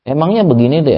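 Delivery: sarcastic parent. Retold or imitated. Parent mocking a child who did wrong, sarcastic high tone. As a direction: needle the child with a fake-surprised question. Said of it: "orang tuanya nyindir".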